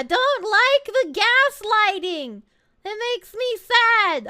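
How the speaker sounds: slow, high, pouting whine; whiny complaint. Pretend. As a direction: draw it out like a sulking child. Complains to chat about teasing.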